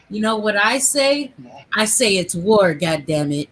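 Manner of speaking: loud defiant declaration; fired-up shout. Real, not acted.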